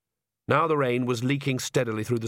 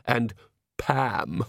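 understated mocking jab; sneering. Brother adds another silly name, sneering. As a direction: drop the name with mild scorn. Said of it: "sneered Vlad".

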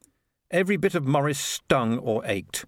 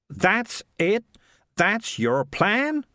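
incredulous; 10 semitones higher, much slower than usual. A narrator's reading. Morris incredulous at plan.

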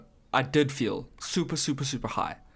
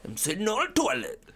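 high-pitched, loopy repeated chant; silly high impression, climbing with each repeat; imitating Charlize; 11 semitones higher than usual. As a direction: mimic a spaced-out TikTok clip, pitched way up. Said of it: "she's speaking like I just spoke".

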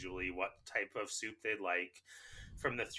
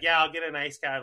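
higher, much louder mock yell; retold yelling; 5 semitones higher, 10 dB louder than usual. Customer ordering over a man blocking the till, retold yell. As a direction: call the order over someone's head. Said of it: "like, yelling over top of him".

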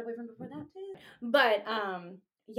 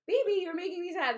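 high, louder whiny reading; hammed-up needy whine; mock pouty plea; 9 semitones higher, 6 dB louder than usual. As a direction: pout it like a clingy text. Reading own needy texts.

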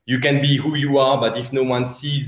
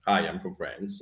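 low-pitched put-on accent hiding the French; fake non-French accent, Sean Connery; 7 semitones lower, 9 dB quieter than usual. Shown as a demonstration. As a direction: try not to sound French, pitched way down. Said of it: "fake, I'm trying to not sound French accent".

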